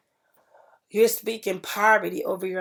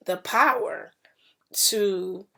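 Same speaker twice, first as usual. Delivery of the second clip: whisper; slower than usual. Real, not acted. Whispered emphasis in preaching.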